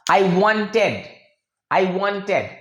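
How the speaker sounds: wanted said without the T, like "wanned"; wanted as "wanned", T silent. Shown as a demonstration. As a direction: drop the T after N in wanted. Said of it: "American movies में आपको सुनाई देगा".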